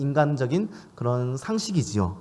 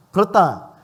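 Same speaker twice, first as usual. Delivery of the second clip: usual speaking voice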